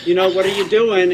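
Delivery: laughing through the words, high; cracking up mid-story. Real, not acted.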